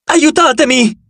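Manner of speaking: high, urgent plea; crying out. A narrator's reading. Falling boy begging his uncle, crying out. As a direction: plead high without full volume. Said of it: "gridò".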